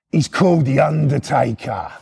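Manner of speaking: lightly put-on wrestling announcer voice; hammed-up ring-name reveal, lightly done; Undertaker announcement. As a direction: announce the name with mock menace. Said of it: "I'll do it in that voice".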